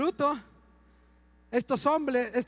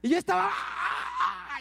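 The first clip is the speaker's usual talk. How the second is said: más agudo, con un ¡ah! entre risas; grito imitado entre risas; 8 semitones higher, slower than usual. Retold or imitated. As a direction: recrear el clamor riéndose. Relata su propio grito. (pastor recuerda el clamor, agudo y riendo)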